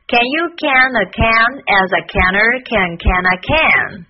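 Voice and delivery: slow, evenly beaten tongue twister; rhythmic tongue twister. Shown as a demonstration. Teacher challenging learners to a tongue twister, measured rhythmic delivery. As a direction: punch out each word in rhythm, unlinked. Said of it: "让我们再来一遍".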